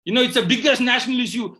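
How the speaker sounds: loud, high, dramatic declaration; hammed-up outcry over a huge issue; mock movie dialogue. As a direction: proclaim it like a blockbuster line. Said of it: "there's a dialogue".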